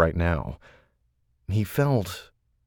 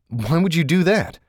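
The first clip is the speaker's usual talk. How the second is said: high, loud incredulous question; can't believe what you heard; 10 semitones higher, 4 dB louder than usual. Acted. Shane incredulous.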